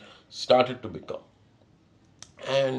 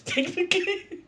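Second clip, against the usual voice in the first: laughing. Real, not acted. Laughs at own pun.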